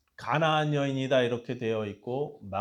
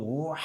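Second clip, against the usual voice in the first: imitated animal howl; 4 semitones higher than usual. Preacher imitating the desperate mother's cry, mock howl. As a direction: let out a brief wordless imitation bellow. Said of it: "짐승이 막 울부짖는 그런 소리입니다".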